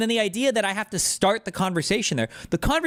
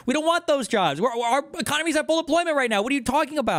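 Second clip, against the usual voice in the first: higher, insistent, leaning on each line; exasperated arguing; 4 semitones higher than usual. Real, not acted. Arguing back about jobs.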